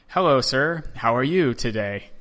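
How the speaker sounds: lightly voiced kids, each word carefully placed; practiced English. Boys in a pool greeting an American tourist, careful practiced English. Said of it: "like, practiced English".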